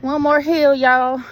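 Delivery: rally the group like a cheerleader; cheerleader cheer. Real, not acted. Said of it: "Cheerleading sis over here".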